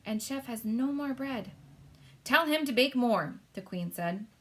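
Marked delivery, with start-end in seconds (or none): 0.0-1.5 slow, discreet butler voice; mild hushed butler. Acted. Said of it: "Mister Tibbs whispered". 2.2-3.4 high, commanding queen voice; the Queen, imperious. Acted. Queen ordering the butler about the hens, imperious.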